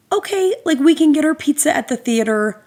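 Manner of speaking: politely pushing to leave; trying to be so nice. Retold or imitated. Mom offering pizza to the dad, high and polite. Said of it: "she's trying to be so nice".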